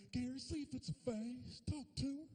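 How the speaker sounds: mother pleading gently; mom's voice. Retold or imitated. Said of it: "my mama had me talk to her".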